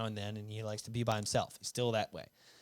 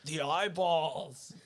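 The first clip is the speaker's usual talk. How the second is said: brother quoted while laughing; 5 semitones higher, much slower than usual. Retold or imitated. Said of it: "he's like".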